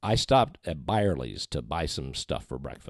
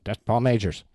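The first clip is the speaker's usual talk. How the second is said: starstruck; 5 semitones higher, 6 dB louder than usual. Retold or imitated. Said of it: "But I'm going".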